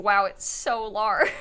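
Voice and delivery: drawn-out, slowed wow with a laugh; slow, half-laughing mock amazement; mock dismay. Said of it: "But in The Sims, I'm like".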